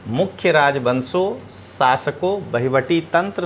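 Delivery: ordinary talk, nothing marked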